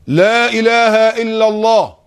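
very high and loud, slowly held; loud drawn-out declaration. Shown as a demonstration. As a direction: call it out long with still lips. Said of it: "بقولها بصوت عالي أوي". (نطق عالٍ جداً وممدود بشفتين ثابتتين)

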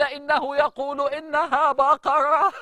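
imitating the reciter, slow and stretched; slow, savouring recitation of a reciter; slow drawn-out recitation. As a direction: stretch each word like the imam in prayer. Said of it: "بطريقة قرايته للقرآن".

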